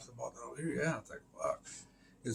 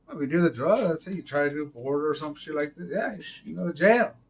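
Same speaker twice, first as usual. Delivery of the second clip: heated rant; 3 semitones higher, 6 dB louder than usual. Real, not acted.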